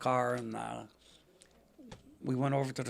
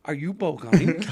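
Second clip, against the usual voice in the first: surprised recognition; 2 semitones higher, 8 dB louder than usual. Retold or imitated. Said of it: "She goes".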